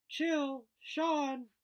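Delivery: high, loud call across the room. Acted. Teacher calling two boys from behind the curtain, loud call. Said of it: "Miz Sedette called to us from the other side".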